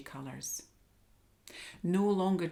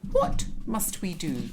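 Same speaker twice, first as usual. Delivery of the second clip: lion voice; 6 dB louder than usual. Acted. Lion asks owl.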